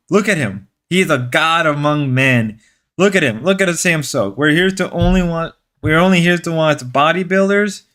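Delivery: mock-earnest manly pep talk; sarcastic. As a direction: plead with the guys in pretend conviction. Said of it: "I gotta stop being sarcastic".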